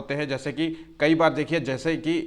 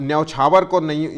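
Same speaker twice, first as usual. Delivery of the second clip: ordinary talk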